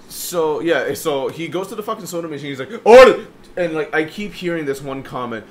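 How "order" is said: put-on loud Egyptian-accented yell, pitched up. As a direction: imitate an Egyptian customer yelling at the counter. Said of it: "just a general Egyptian accent".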